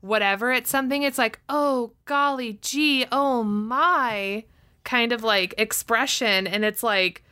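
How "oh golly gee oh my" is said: lightly mocked breathless-heroine exclamation, drawn out; hint of a shocked sixties movie damsel, slowly; damsel in distress. Podcast host mocking shocked women in sixties movies, mild damsel in distress. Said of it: "damsel in distress kind of, like, tone".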